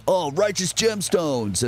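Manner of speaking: high, drawn-out exclamation; mock fan reaction. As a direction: imitate a delighted commenter recognizing it. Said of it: "people just go like".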